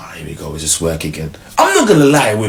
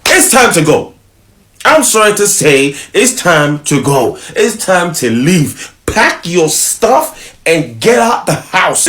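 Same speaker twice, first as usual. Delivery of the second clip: emphatic advice; 5 semitones higher, slower than usual. Real, not acted. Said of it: "advising men forcefully".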